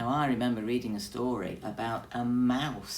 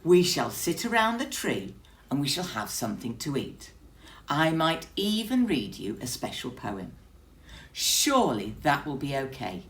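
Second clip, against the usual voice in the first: pompous bear; 4 semitones higher, 5 dB louder than usual. Acted. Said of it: "Bear declared".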